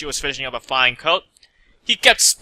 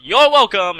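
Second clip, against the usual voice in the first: yelled; 6 semitones higher, 6 dB louder, slower than usual. A narrator's reading. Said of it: "The gray Pegasus yelled".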